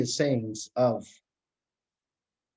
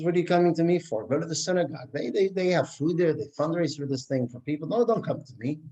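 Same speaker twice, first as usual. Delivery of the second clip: dismissive miser; 4 semitones higher than usual. Acted. Miser brushes off the beggar.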